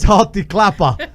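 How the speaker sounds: mock German order with Halt die Klappe drawn out slowly. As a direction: Halt die Klappe slow and barked, rising on Halt. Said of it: "That's German for".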